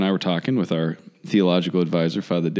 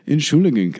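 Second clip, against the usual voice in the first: laughing through "Entschuldigung", pitched up; 8 semitones higher, 3 dB louder than usual. Real, not acted. Priest laughing at the absurd German word, said while laughing. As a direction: giggle out the long word "Entschuldigung". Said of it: "And I was just like".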